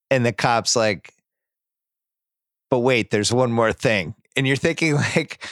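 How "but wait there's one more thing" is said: lightly voiced measured cop; cop breaking bad news. Cop to the father after a pause, lightly acted gravity.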